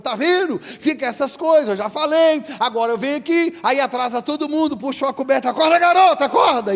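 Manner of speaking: high, loud angry wake-up yell; furious father shouting. Retold or imitated. Late father pulling the blanket off his son, furious shouting. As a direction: yank the covers and bellow him awake.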